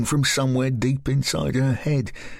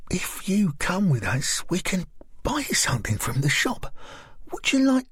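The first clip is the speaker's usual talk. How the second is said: put-on higher, friendly young woman's voice; higher, coaxing woman's voice; Lisa's voice; 8 semitones higher than usual. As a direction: coax a strange girl gently. Narrator voices Lisa.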